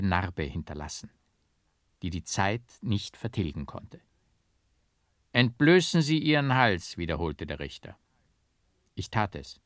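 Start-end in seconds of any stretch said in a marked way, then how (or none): 5.3-7.0 judge's firm order. A narrator's reading.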